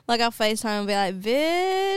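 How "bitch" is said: high sassy Filipino-American drawl, imitated; Bretman Rock voice. On FaceTime to her friend Jaira, imitating Bretman Rock's sassy high voice. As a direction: fling it out sassy, pitched way up. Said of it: "like Bretman Rock".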